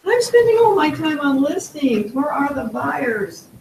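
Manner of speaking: high whiny complaint. Retold or imitated. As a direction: whine it like a fed-up agent. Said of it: "In his whiny female voice".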